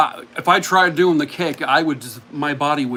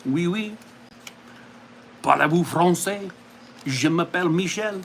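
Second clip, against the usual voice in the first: put-on French accent. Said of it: "the French accent".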